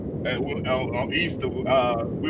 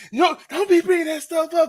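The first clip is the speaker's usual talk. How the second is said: mama scolding; 14 semitones higher than usual. Retold or imitated. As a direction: snap back like an annoyed mom. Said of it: "She's like".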